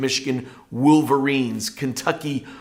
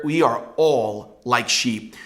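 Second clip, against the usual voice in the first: "all" drawn out with emphasis; stress on "all"; much slower than usual. Shown as a demonstration. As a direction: lean firmly on the word "all". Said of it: "Notice the emphasis on the word all".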